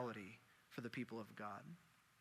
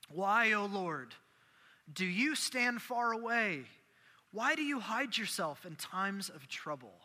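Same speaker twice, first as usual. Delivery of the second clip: anguished plea; 3 semitones higher, slower than usual. Acted. Preacher voices David crying out to a distant Lord, anguished plea. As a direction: stretch out the opening question like a lament.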